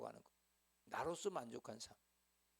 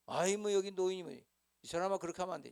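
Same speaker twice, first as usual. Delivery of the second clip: dismissive rebuke; 6 semitones higher, 6 dB louder than usual. Retold or imitated. Rude person dismissing elder.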